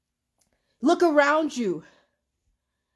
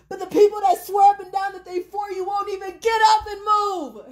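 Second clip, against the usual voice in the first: exasperated shout; 5 semitones higher than usual. Real, not acted. Ranting at followers who won't show up, a fed-up shout. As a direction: yell it at the people who let you down.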